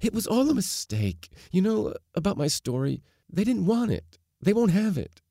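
very high, distressed outburst; bursting out. A narrator's reading. Daughter confessing her rejected story to father, bursting out. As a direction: blurt the confession, pitched right up. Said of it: "heard herself bursting out".

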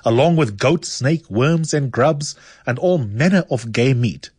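a lightly ironic reading of a satirical essay; reading an essay aloud. Acted. Host reading a satirical essay to listeners, dry and ironic. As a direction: read it out with a dry wink.

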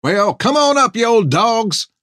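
put-on cackling old hermit. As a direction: crow it back, cracked and gleeful. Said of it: "said Hank".

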